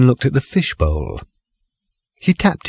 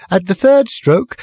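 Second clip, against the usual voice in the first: high, stilted sing-song recorded voice; speaking clock; 11 semitones higher than usual. Acted. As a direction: sing the time like an old talking clock. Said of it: "stilted sing-song voice".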